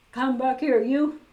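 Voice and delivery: loud chasing shout; loud angry call to the rabbit; angry cry. A narrator's reading. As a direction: yell after the runaway rabbit. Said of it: "cried Professor Hinkle".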